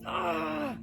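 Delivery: frustrated groan. Acted. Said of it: "they can be like".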